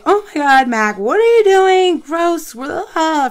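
loud, high, hammed-up disgusted outburst; retold freak-out. Owner finds dog eating raw chicken, retold freak-out. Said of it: "I'm freaking out".

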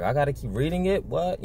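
mock disbelief, pitch climbing high; incredulous. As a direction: voice a balking reader, rising to a high "what?". Voicing people balking at reading.

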